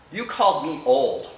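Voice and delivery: dad sulking, told through laughter; laughing mock hurt. Dad retold, offended.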